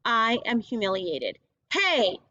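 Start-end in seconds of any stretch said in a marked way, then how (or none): 1.7-2.2 higher, sharp hey; loud deep call. Acted. Ronan interrupting the girls' teasing with a firm shout. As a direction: cut in firmly. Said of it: "A loud, deep voice".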